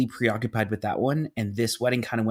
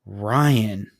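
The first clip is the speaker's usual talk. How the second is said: drawn-out recognition; 3 semitones lower, 4 dB louder than usual. Retold or imitated. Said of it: "and she goes".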